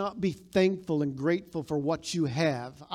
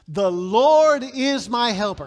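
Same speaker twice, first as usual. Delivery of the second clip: slow, much louder call-and-response; congregation echo; 6 semitones higher, 11 dB louder, slower than usual. Shown as a demonstration. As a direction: lead the crowd through it loud and slow. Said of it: "Say that with me".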